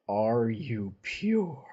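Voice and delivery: "Are you pure?" dragged out slowly and falling on "pure"; slow cold repeat. Retold or imitated. Avacyn pressing Mocker, a slow, cold, falling repeat. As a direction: stretch each word out, ending flat and final. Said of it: "she looks down at Mocker and says".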